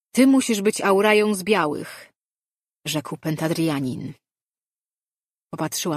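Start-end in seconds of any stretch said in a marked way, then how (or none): 0.1-2.1 higher, louder declaration; intruding sorcerer. A narrator's reading. Foreign sorcerer to priestess, imposing address. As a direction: confront her with a firm, projected voice.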